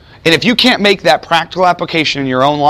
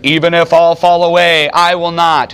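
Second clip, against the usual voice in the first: proud vow, a bit louder; Peter's confident boast; bold declaration; 4 semitones higher, 4 dB louder than usual. Retold or imitated. Peter boldly vows to Jesus, loud and proud. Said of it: "Peter declared".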